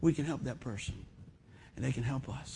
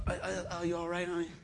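softer, laughing "oh, oh, oh" to a dozing wife; mock startled, laughing; 10 dB quieter than usual. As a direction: jolt her awake with a chuckle. Waking wife who nods off.

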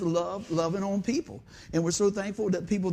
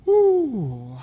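mock whoop; 5 semitones higher, 10 dB louder than usual. Mock eager runner.

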